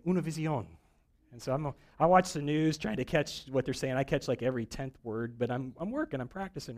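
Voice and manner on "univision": Univision said the Spanish way, oo-nee-vee-see-ON; Spanish accent. Retold or imitated. Preacher mimicking Spanish newscasters with a light Spanish accent. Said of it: "or as they say".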